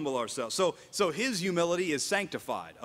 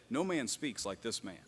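hushed reverent testimony; 6 semitones lower, 7 dB quieter than usual. Pretend. What the comforted believer can say.

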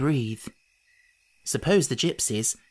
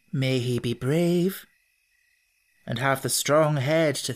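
solemn blessing. Acted. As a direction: intone it like a charm. Gypsy blesses the baby.

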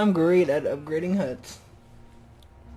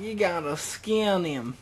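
put-on stretched southern redneck accent, "skin" drawn out like "skaan"; slow redneck drawl; 2 semitones higher than usual. Gamer telling himself to skin the deer, slow redneck drawl. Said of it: "I sound like a redneck".

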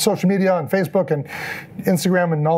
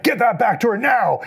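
mildly heated mock order, pitched higher; livid; 4 semitones higher than usual. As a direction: imitate an irate guard's demand. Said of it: "he was livid".

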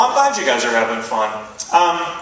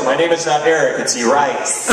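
snooty correction; 3 dB louder than usual. Retold or imitated. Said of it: "stuck-up variations".

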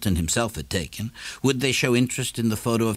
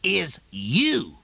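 much higher, cool comeback; Morrison's retort; 8 semitones higher than usual. A narrator's reading. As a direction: answer the shopkeeper's shout calmly.

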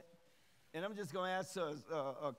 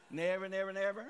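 rising, louder repeated never; emphatic never; 4 semitones higher, 5 dB louder than usual. Real, not acted. Preacher to congregation, emphatic louder nevers. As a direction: pound each never home harder.

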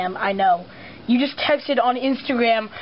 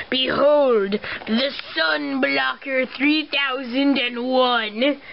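grand villain announcement; much slower than usual. Acted. Final unveiling of device.

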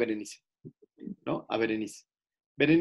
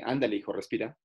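gentle coaxing; 5 semitones lower, 5 dB quieter than usual. Retold or imitated. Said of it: "ya soy un poquito más gentil".

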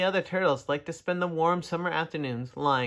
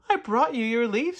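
put-on young turtle voice; 8 semitones higher, 3 dB louder than usual. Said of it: "said the turtle".

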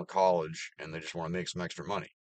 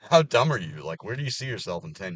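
incredulous outburst; 6 dB louder than usual. Real, not acted. Ranting about Gen Z coworkers, loud disbelief. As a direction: blurt it out in disbelief.

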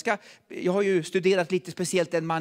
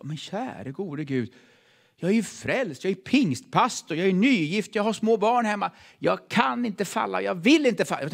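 retold desperate plea; 3 semitones higher than usual. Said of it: "Han kämpade".

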